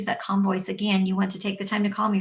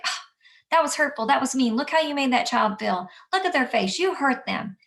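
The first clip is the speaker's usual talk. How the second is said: put-on harsh, accusing scolding of a child, raised pitch; 5 semitones higher, 3 dB louder than usual. Shown as a demonstration. Teacher scolding a child who bullied, harsh. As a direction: scold the child for being mean. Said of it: "basically degrading the child to punish them".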